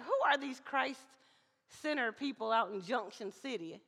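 put-on mild Southern accent, almost plain. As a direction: let a hint of the South slip in. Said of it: "see how that little Southern accent just creeped in".

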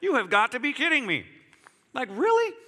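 exasperated disbelief. Retold or imitated. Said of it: "you're just like".

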